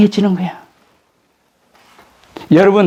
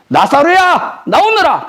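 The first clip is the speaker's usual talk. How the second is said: higher, commanding call into the tomb; Jesus calling out; 9 semitones higher, slower than usual. Retold or imitated. Jesus calls dead Lazarus out of the tomb, commanding. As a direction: call him out with authority.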